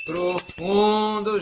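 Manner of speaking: drawn-out awe. Real, not acted. Awed by the deep study.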